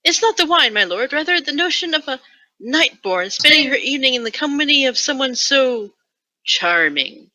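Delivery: gurgling coy lady. Acted. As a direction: flutter it out girlishly. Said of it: "She gurgled".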